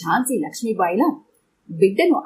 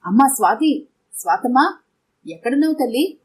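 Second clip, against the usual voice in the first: understated acted shout for a daughter; sudden cry; 3 semitones higher than usual. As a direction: cry out for her lost daughter. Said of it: "అకస్మాత్తుగా అరిచింది".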